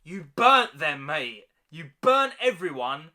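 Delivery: angry rant. Real, not acted. Angry at Daenerys.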